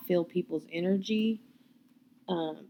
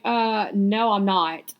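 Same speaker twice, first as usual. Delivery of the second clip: louder, firm retold refusal; defiant refusal; 5 dB louder, much slower than usual. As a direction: push back at the teacher, emphatically. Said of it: "I remember being very, like, against it".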